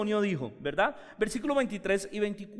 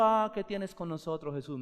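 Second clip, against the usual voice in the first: soft, chuckling, casual ah; preacher mocking a too-gentle demon quote; tame mock version; 2 semitones lower, 5 dB quieter than usual. Shown as a demonstration. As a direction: say it politely and prettily, as the demon did NOT. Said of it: "el demonio no estaba diciendo".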